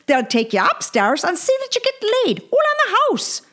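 high excited Irish brogue; hammy Irishman bragging to mates; Irish accent. Acted. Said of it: "says Paddy Sheehan, the Irishman".

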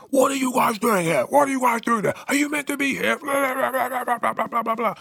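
high-pitched mock telling-off; imitated yelling doorman. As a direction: squeak out his indignant demands. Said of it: "he starts yelling at them".

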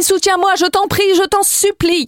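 high, whiny begging voice; mock pleading. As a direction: beg like a drama queen. Begging a co-host for support.

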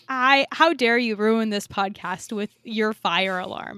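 hammed-up indignant scolding; mock outrage. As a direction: pretend to be offended. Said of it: "what if I, like, really did get mad".

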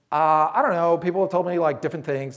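a hint of a shy teenage girl answering; fourteen-year-old girl voice. Foster girl answering the pastor, lightly voiced teen girl. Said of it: "That's my fourteen-year-old girl voice".

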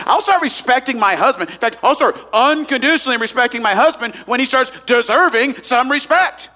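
mock a wife complaining about her husband; indignant wife. Pastor imitating a wife who objects, lightly indignant. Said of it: "You say".

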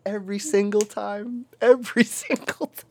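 high voice breaking into laughter; imitated laughing. Drunk friend cracks up at drive-thru, high laughing imitation. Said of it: "he starts laughing".

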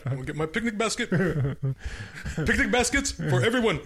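cartoon bear voice. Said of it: "You do it so well".

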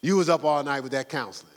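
a hint of a soothing church friend; mock sympathetic friend. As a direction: ease him off, like a buddy. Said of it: "you ain't gonna".

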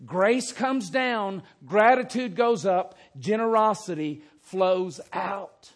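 slow, loud, emphatic refrain; preacher driving the key line home. Shown as a demonstration. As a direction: proclaim each phrase as a motto. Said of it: "That is always the order".

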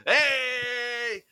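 slow, hammed-up Seagal line; dueling Seagal impressions, slow and mock-cool. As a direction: overplay the Seagal deadpan. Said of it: "let's do Battling Steven Seagal's".

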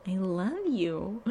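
slow, soft, lightly voiced "I love you"; slow soft mock of Willow's "I love you"; failed imitation. Shown as a demonstration. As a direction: try Willow's cloying "I love you" and miss. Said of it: "I can't even imitate it. That wasn't right".

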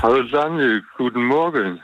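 talking through a stuffy nose; blocked nose. Real, not acted. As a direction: sounds congested, nasal. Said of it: "du klingst verschnupft". (verschnupft, mit verstopfter Nase)

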